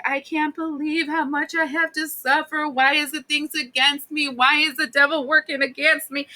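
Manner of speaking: high, mock-tragic self-pity; self-pitying lament. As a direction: wail about your suffering, hammed up. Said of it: "when you're like".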